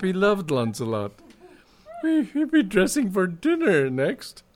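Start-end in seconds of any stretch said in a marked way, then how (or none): 2.0-4.4 high, agitated outburst; worked up and high-pitched; deeply agitated. A narrator's reading. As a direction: blurt it out high in great agitation. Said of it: "He was deeply agitated".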